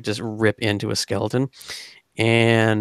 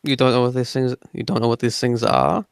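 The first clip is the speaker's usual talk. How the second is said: put-on French accent. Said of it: "I keep putting it in a French accent".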